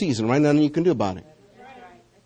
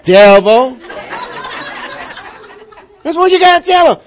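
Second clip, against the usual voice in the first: preaching shout; 8 semitones higher, much slower than usual. Real, not acted. Preacher shouting "and what" at the devil.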